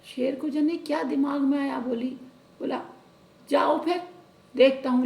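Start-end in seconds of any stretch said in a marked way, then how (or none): 3.5-5.1 booming lion's permission; loud, lordly lion voice. Acted. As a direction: call it out big like a lion. Lion lets the cow go.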